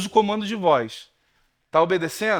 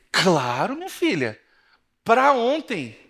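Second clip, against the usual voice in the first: pastor's jokey manner; 3 semitones higher, slower than usual. Retold or imitated. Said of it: "Naquele jeitão dele lá".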